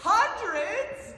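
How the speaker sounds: hammed-up disbelief. Cohost reacting to hundreds of uses, hammed-up disbelief. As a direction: squeal it like a stunned cohost.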